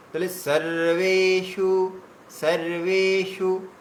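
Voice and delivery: সর্বেষু with a short, clipped "সু"; careful pronunciation demo. Shown as a demonstration. Teacher showing students সর্বেষু, keeping the "সু" short. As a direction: keep the "সু" in সর্বেষু short, do not stretch it. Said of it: "সুটা কিন্তু টানা যাবে না".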